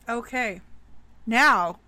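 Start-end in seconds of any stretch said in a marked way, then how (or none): 1.3-1.8 jack o lantern voice. Acted. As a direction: draw it out like a Halloween host. Host addresses listeners, game-show style.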